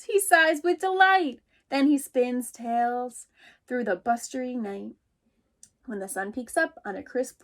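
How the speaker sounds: a little mouse calling out, startled. Acted. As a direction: call out as if someone just knocked. Teacher reads picture book aloud.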